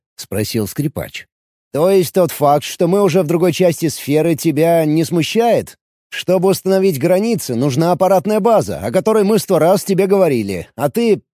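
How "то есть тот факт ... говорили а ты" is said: put-on higher, pressing questions from an annoyed young man; lightly voiced violinist, demanding answers; a hint of an edgy fiddler's voice; irritated violinist. Violinist scolds Ari.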